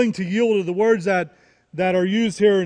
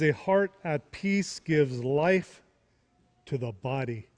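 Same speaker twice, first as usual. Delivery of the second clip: slow scripture reading; 4 semitones lower, 5 dB quieter, slower than usual. Shown as a demonstration.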